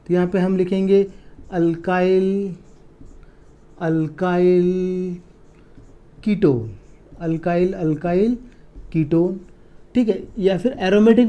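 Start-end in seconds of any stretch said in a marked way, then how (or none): 1.5-9.4 dragged out word by word; slow dictation. Shown as a demonstration. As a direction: spell it out slowly as you write. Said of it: "teacher dictating as he writes". (धीरे-धीरे लिखवाते हुए)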